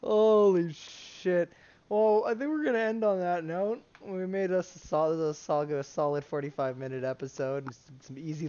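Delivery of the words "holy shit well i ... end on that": slow, breathless after laughing; wheezy voice. Real, not acted. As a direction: catch your breath after a laughing fit.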